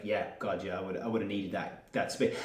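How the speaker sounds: quietly admitting she needed the space; quiet inner thought. Retold or imitated. Parent admitting she needed space, quiet and musing. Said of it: "you're just like".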